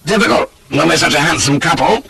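cheeky flirtation; leering. A narrator's reading. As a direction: tease with a mild leer. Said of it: "says I, leering".

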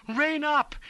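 very high, loud cry; desperate bawl. A narrator's reading. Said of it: "he bawled".

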